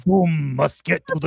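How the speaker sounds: put-on hammy Austrian action-hero accent; mock Austrian action-star voice; Arnold Schwarzenegger. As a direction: play a villain with a thick Austrian accent. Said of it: "see Arnold Schwarzenegger as Doom".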